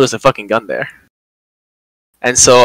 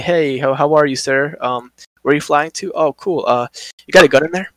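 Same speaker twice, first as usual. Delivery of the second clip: polite check-in agent; 3 semitones higher than usual. Retold or imitated. Agent checking in a passenger, mock-polite and casual. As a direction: chirp through routine questions, slip in the gun. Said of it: "gonna check somebody and be like".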